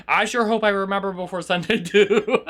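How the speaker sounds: self-mocking line breaking into laughter; amused laughing. Real, not acted. Streamer echoing a viewer about forgetting, breaking into laughter. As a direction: echo it back, then crack up.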